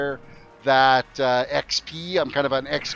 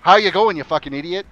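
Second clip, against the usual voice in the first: mock hidden insult; 2 semitones higher, 5 dB louder than usual. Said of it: "That really means".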